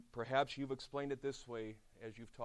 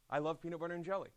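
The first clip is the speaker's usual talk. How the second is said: put-on higher, louder, fast eager kid voice; gushing camper; 6 semitones higher, 5 dB louder, much faster than usual. Preacher voices a junior camper who loves PB&J, fast and eager. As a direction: blurt it out like a kid who adores PB&J. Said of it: "They would say this to me".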